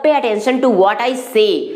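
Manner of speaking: very slow, each word spaced; drawn-out classroom model phrase; slow teaching demo. Shown as a demonstration. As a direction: model the sentence slowly for learners. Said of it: "तो क्या हो जाएगा".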